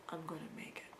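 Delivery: soft whispered, defeated; whispered despair. Real, not acted. Out of breath, knowing the bus is lost, whispered.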